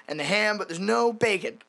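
half-hearted imitation of an irate diner; Cotton's retold yell. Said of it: "Cotton starts yelling about the bacon".

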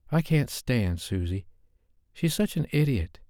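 Sophie blurting. A narrator's reading. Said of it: "She finally blurted out".

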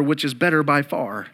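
a playful, laughing read of the phrase; amused mock phrasing. Preacher teasing the congregation about old-fashioned wording, chuckling. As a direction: laugh through it, poking fun at old wording. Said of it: "Have you ever said".

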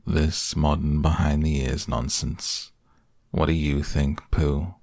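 slow, gloomy donkey voice; Eeyore grumble. Acted. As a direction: mutter it glumly.

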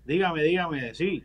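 distorted low disguised voice; deep pitch shifted. Acted. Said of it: "la voz distorsionada".

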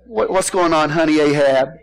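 lightly voiced doting wife; mild mock sweetness to a husband; sweet wife. Jezebel checking on sulking Ahab, lightly mock sweet. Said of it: "Not really. She's a mean old woman".

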